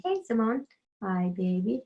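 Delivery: cooing to the cat. Real, not acted. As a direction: coo at your kitty who just walked in. Greets her cat mid-story.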